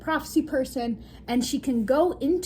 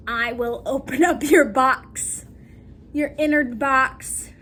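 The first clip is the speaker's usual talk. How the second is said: louder, slow intoning; mystic seer voice; 6 dB louder, slower than usual. Retold or imitated. Isra holding Alara, slowly intoning a mystical promise. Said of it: "she's going".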